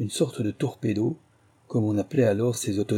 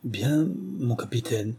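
slow, halting, playing dumb; feigned dazed stammer; 2 semitones higher, slower than usual. Soldier plays dumb to the officer, slow halting stammer. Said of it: "Je bégayais pour mieux simuler l'ahurie".

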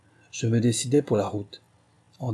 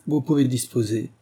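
brisk command, slightly raised; officer's order; 3 semitones higher, 3 dB louder than usual. Acted. Officer dismisses the corporal with a crisp command.

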